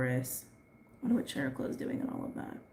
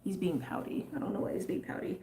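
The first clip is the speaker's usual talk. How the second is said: soft aside; 3 semitones higher, 6 dB quieter than usual. Real, not acted. Soft aside about pet.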